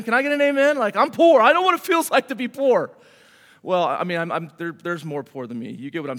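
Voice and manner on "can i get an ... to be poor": calling for an amen. Real, not acted. Preacher calls for an amen.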